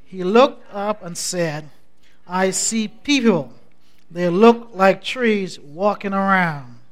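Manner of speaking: measured, declamatory Bible reading; scripture reading. Acted. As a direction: read scripture aloud for a congregation to follow. Leads congregation reading scripture in concert.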